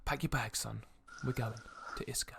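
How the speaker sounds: understated, cool orders to a son; noble father. Acted. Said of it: "The father then replies with".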